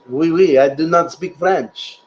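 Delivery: playful fake French "oui, oui", then slow; mock French. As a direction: joke about not speaking French in a light French flavour. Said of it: "you don't speak French".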